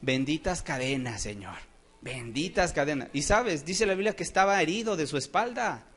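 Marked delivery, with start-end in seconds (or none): 0.0-3.1 lower, softened imitation of thankful praying; quietly devout, acted thanks; grateful prayer. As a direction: voice a humble thanks to God. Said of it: "estaba agradeciéndole a Dios".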